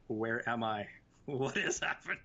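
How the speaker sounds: mock bewilderment, pitch climbing; bewildered. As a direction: act lost and baffled, rising as it goes. Acted bewildered reaction in retelling.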